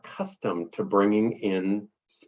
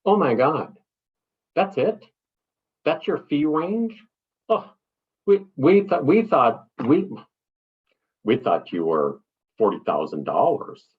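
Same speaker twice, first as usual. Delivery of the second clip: higher, gushing mock enthusiasm; effusive client; 4 semitones higher, 3 dB louder than usual. Client fishing with gushing praise, excited and higher. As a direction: overdo the delight like a fan. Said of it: "overly enthusiastic".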